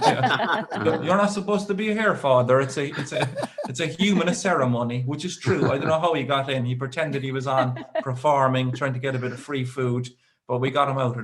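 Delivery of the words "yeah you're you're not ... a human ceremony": a groom ribbing the priest; mock telling off the priest. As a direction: tease the priest out of the room, giggling. Heckling the priest at wedding.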